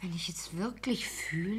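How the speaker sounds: soft, timid whisper; hushed, hesitant objection. Acted. Woman whispers her feelings.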